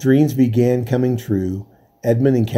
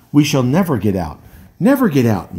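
moaning. Acted. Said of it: "moaned the rowers".

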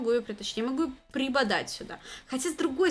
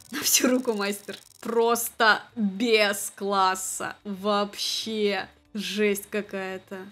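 mock announcer; 2 semitones lower, 3 dB louder, much slower than usual. Mock commentary on bad play.

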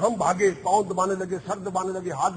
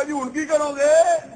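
mock surprise; 8 semitones higher, 6 dB louder, slower than usual. Mocking the patient's surprised reply.

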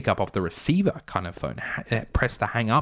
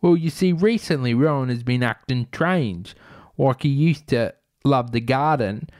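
criminal; 3 semitones higher, 4 dB louder than usual. Retold or imitated. Criminal explains motive.

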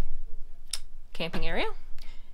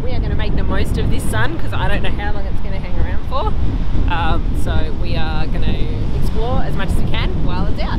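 shouting over wind. Real, not acted. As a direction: raise the voice over a gale. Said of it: "I hope you can hear me through the wind".

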